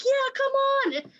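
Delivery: high, lightly yelled challenge; mock taunt. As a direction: egg on the shark half-jokingly. Retelling trailer heroine's taunt.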